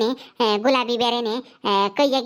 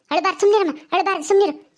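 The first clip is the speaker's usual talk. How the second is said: put-on higher-pitched baby-soothing; insistent hushing; 4 semitones higher than usual. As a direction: hush a crying baby insistently. Elder hushing a crying baby.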